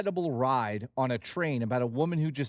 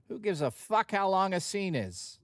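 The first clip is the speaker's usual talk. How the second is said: David Lynch impression; 4 semitones higher than usual. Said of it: "That's how he talks".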